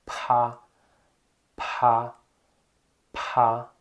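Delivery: pá with a strong puff of air, Chinese p; aspirated pinyin pa. Shown as a demonstration. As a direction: blow air out on the p of pá. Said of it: "porém você vai assoprar".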